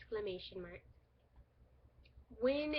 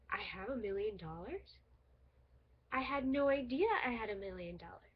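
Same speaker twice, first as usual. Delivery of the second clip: surprised. Retold or imitated. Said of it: "and I would be".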